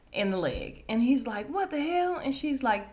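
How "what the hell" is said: high, loud yelp of pain and shock; hammed-up cry after being shot; mock shocked yell. Shot bouncer yelling.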